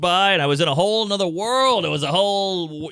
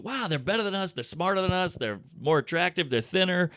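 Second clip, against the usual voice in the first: hushed awe; 2 semitones higher, 5 dB quieter than usual. Retold or imitated. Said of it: "you're over there going".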